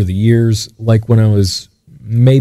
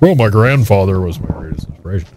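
mock cliche tribute. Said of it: "I don't mean to sound cliche and be like".

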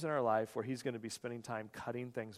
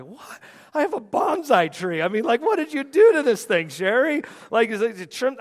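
high, loud retold shock at the trimmed tree; coming home to find the tree cut back, loud and shocked; shocked disbelief; 10 semitones higher, 13 dB louder than usual. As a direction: replay your horror at the ruined bush, much louder and higher.

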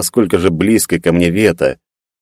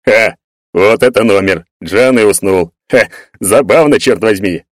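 cheerful; 3 semitones higher than usual. Acted. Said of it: "весело отозвался Егор".

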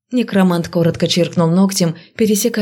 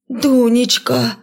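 high, drawn-out alarmed cry; frightened call; 5 semitones higher, much slower than usual. A narrator's reading. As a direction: call out in fear for the girl. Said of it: "испуганно слетело с губ". (испуганный зов)

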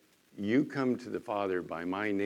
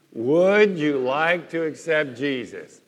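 slow and louder, all together; slow counted recital; 3 semitones higher, 8 dB louder, slower than usual. Shown as a demonstration. Preacher leading the congregation in a slow, louder recital. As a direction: say it slowly in unison on the count. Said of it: "Okay, ready? One, two, three".

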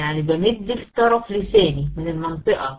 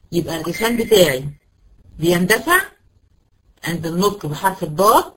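ordinary delivery

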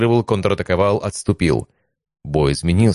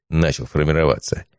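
ordinary delivery

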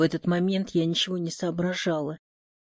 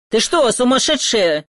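angry shout at the driver, louder; yelling; 4 semitones higher, 8 dB louder than usual. A narrator's reading. Nearly run-over man yells at the driver, loud and angry. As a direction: bellow at her, outraged. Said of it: "он заорал".

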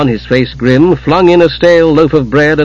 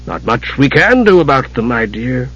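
solemnly; 3 dB quieter than usual. Acted. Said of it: "Caramon said solemnly".

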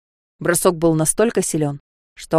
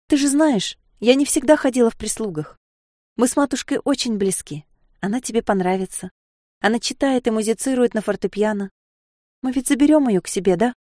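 plaintive babble; 5 semitones higher than usual. Acted. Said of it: "залепетала быстро и жалобно".

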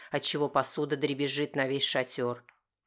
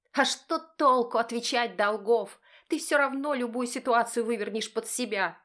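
bitter wife; 9 semitones higher than usual. Acted. Wife answering husband bitterly, high and weary. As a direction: throw it back as the wife.

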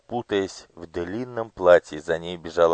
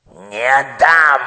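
slow, higher mock yell; 6 semitones higher, 5 dB louder, much slower than usual. Official shaking off the minister, yelling refusal. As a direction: wail out the refusal. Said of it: "завопил Абаж".

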